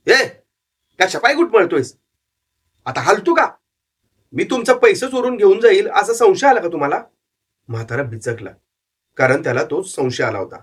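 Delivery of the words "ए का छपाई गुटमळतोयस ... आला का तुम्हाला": put-on old man snapping. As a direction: snap at the loitering boy. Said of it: "म्हातारा खेकसलाच".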